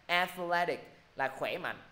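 athletic with the stress on -thle-, slow; slow teacher demo of athletic; stress on second syllable. Shown as a demonstration. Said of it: "Nhấn vô âm tiết thứ hai".

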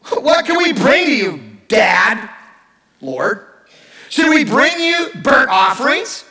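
put-on sarcastic teen sassing God about offerings; sarcastic teenager. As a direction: read it like a bratty teen talking back. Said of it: "like a sarcastic teenager".

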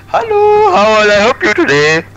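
high, loud, sing-song fake-polite voice; mock police operator. Mocking Swedish police answering an emergency call, falsetto cheer. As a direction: chirp it like a cheery call-centre cop. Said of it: "but they're like".

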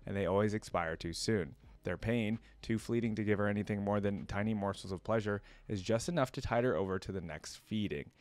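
measured storybook reading; story narration. A narrator's reading. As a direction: narrate a dark tale with care. Reads villain lore aloud.

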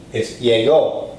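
llegó said slowly with the ó marked; stress on the O. Shown as a demonstration. Teacher repeating the word for students, marking the final ó. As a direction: land firmly on the ó of llegó. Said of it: "notice another accent".

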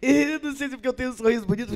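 high, rapid grinning chatter; fast, high, mock-sweet smiling voice; smiley student. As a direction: imitate a student who giggles as she talks. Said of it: "Aí ela falou assim".

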